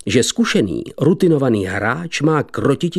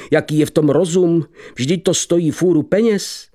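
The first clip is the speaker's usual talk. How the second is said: trembling voice; 2 semitones higher than usual. Acted. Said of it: "hlasem, jenž se třásl jako huspenina".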